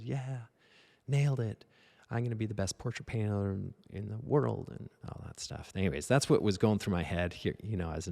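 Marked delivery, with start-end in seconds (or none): 0.0-4.7 higher, giddy self-congratulation; excited boasting. Retold or imitated. Naive student imagines fame after the compliment, high and giddy. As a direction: puff up like you've already made it. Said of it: "I'm so excited".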